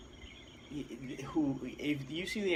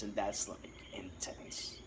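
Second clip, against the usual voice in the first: whispered, softer, in awe; softly whispered awe at the diver's ride; awed whisper; 5 semitones lower, 8 dB quieter, slower than usual. Real, not acted. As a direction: hush it as if amazed. Awed by shark story.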